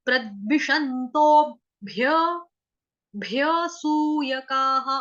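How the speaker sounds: प्रद्विषन्तोभ्यसूयकाः slowly, a light half ब; slow recitation. Shown as a demonstration. Teacher showing the half ब, slowly. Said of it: "आधा बकरी वाला ब बोला है".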